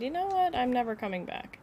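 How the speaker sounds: flounce off in a huff; mock quitter voice. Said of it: "Did he just take off and decide".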